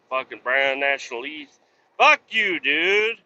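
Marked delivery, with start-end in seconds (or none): 2.0-3.2 higher, louder furious shout; angry yell. Real, not acted. Trucker yelling at the Brown National Lease driver, furious shout. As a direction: let it rip at the other truck.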